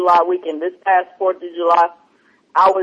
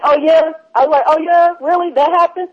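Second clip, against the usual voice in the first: higher, fake-amazed oh yeah; sarcastic mock interest; 9 semitones higher, 3 dB louder than usual. Brushing off the stranger's sad story with higher fake interest. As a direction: pretend to care, dripping sarcasm.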